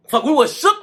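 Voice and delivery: shocked outburst. Real, not acted. Reacting to the fight.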